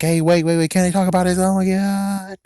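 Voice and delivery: high, hurried protest stretching into a long wail; imitating someone wailing as they're thrown away; mock panicked plea. Thrown character pleading in panic.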